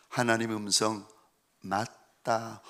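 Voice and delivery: low, soft, slow affirmation; solemn assurance. Retold or imitated. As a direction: say it quietly and firmly. Father answers daughter solemnly. (딸에게 낮고 느리게 확신을 주는 아빠)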